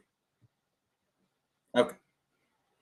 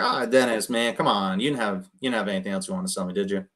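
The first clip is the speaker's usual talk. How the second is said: casual, easygoing chat between friends; buddy at the bar; faster than usual. Shown as a demonstration. Caller teasing seller Dennis like an old buddy, relaxed. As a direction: talk like you're having a beer together. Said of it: "like I'm his buddy and, you know, we're each having a, having a, a beer at the bar".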